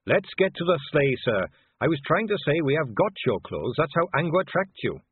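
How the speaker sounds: friendly and helpful, lightly lifted; lightly voiced cheerful young Carrot. Carrot's voice in dialogue.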